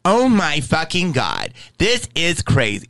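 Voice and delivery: lightly camped-up West Hollywood voice; mock West Hollywood accent gasping at something crazy. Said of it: "usually that accent comes out".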